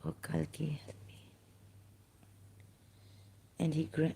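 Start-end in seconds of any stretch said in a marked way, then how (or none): 0.1-1.2 real whispered cry for help; a desperate whispered prayer to Kalki; whispered plea. Real, not acted. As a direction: breathe the plea out, barely voiced. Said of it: "I have to call out to Kalki Avatar".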